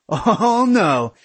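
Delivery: high, scornful "oh, no"; indignant refusal. A narrator's reading. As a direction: refuse to let the other walk away. Aaron refuses, following him.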